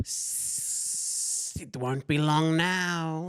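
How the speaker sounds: very slow, sibilant, hissing serpent villain voice. Reading a story aloud, voicing the snake-like face in a hissing snake-like voice. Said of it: "I started with this the hissing".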